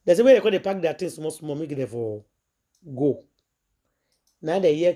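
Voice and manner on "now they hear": ordinary talk, nothing marked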